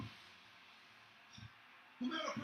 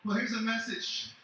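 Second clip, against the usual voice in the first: loud warning; 3 semitones lower, 8 dB louder than usual. Real, not acted. Threatening promo to rival.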